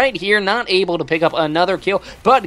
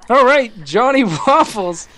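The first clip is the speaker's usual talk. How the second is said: odd voice; 4 semitones higher, 3 dB louder than usual. Acted. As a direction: put on a weird silly voice. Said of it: "What even was that voice?".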